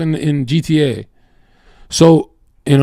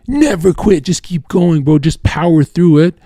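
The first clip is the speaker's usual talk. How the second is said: gung-ho self-talk; 5 semitones higher than usual. Retold or imitated. Acts out his never-quit mindset.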